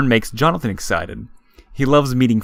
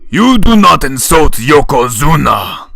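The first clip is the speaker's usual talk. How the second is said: put-on loud, higher indignant drunk; proud and outraged; drunken sumo voice; 5 semitones higher, 8 dB louder than usual. A narrator's reading. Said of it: "Shoji says, stumbling".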